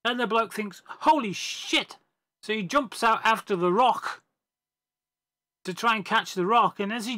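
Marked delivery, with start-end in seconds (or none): 0.9-2.0 high, slow, drawn-out gasp of dismay; shocked realisation. Acted. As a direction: bloke realising what the rock is tied to, so shocked, high and slow. Bloke realises the rock trap.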